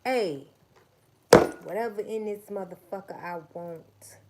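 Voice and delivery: loud boasting boss with sudden drops; mock boss. Pretend leader bossing the crowd around. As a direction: brag like a self-declared leader. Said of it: "sat your damn".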